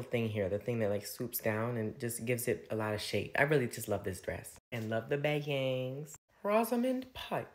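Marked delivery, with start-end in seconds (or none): 6.4-7.5 the name shot way up high in a silly announcer voice; odd squeaky announcement. Real, not acted. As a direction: blurt the name out far higher than your normal voice. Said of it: "I don't know why I said it like that".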